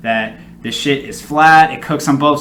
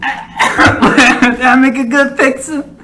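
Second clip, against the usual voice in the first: mocking the cook; 8 semitones higher, 3 dB louder, slower than usual. Mocking the cook's voice.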